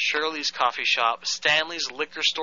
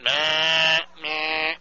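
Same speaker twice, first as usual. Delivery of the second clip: nasal meh meh beeps; imitated busy signal. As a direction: mimic a broken busy tone. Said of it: "it goes like this".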